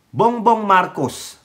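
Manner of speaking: slow, halting broken Tagalog in a mock Chinese accent. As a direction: mimic him with a put-on Chinese accent. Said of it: "inchik din pala ito". (panggagaya ng puntong Intsik)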